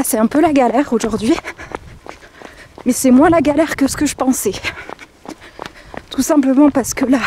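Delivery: panting out words mid-jog; talking while out of breath from running. Real, not acted. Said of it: "Je vais essayer de vous parler en courant".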